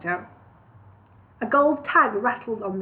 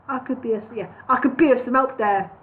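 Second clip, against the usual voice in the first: bird voice, final take. Shown as a demonstration. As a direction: settle into the bird's voice. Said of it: "let me try and get it right".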